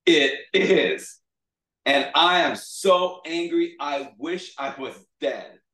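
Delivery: loud, high sulky outburst, dropping at the end; hammed-up pout, drawn out. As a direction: sulk loudly like a thwarted child. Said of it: "like, pouting now".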